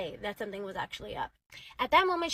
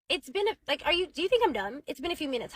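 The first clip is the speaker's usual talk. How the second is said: indignant challenge; 4 semitones higher than usual. Retold or imitated. Wife challenges husband in retold quarrel.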